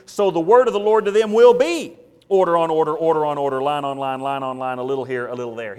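loud, then fading reading of the verse; proclaiming the verse, dropping away at the end; solemn scripture reading. Acted. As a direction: read it as God's sentence. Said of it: "See it in verse thirteen?".

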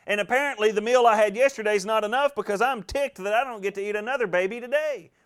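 high-pitched retold griping; hollering in complaint. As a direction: holler the complaint up at the king, ticked off. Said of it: "she's hollering out at him".

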